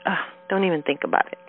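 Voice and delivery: quick, lightly dismissive brush-off. Retold or imitated. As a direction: imitate someone waving a worry away. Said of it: "sort of dismissing, like".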